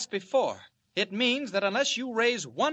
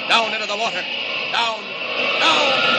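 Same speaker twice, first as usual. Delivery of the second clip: effortful shout; 3 semitones higher, 8 dB louder than usual. Acted. Superman diving into the river.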